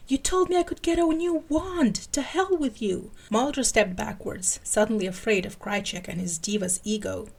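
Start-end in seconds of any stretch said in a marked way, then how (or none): 0.1-3.1 wild yelling. A narrator's reading. Krychek yells upward about his promised new wand, furious. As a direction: rage at the heavens, full tantrum. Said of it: "wildly yelling".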